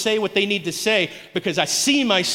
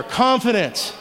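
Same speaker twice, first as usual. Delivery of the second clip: CONFIDENCE called out a touch louder; slower than usual. Shown as a demonstration. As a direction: call CONFIDENCE out firmly for the crowd to echo.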